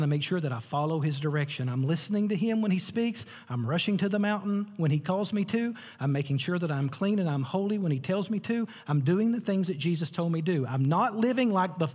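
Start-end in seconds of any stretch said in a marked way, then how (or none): 1.7-11.9 rising, driving preacher cadence; preaching build. Real, not acted. Preacher declaring a changed life to the congregation, building fervently. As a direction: build line on line, pitch lifting.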